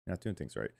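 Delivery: low mumbled repeat; muttered. Real, not acted. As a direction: mutter it under your breath.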